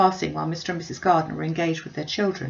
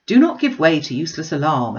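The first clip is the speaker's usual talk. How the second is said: uncle reassuring; 6 dB louder than usual. Acted. Uncle calming Mrs Bennet.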